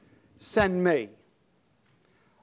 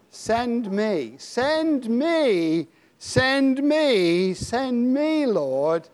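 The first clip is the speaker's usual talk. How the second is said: rising plea; 3 semitones higher, much slower than usual. Real, not acted. Preacher leads prayer.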